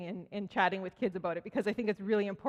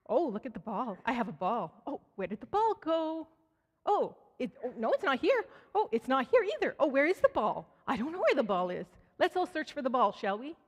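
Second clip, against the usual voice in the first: put-on higher, sing-song playful voice for a baby; mock baby talk; 3 semitones higher than usual. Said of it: "and she'd say".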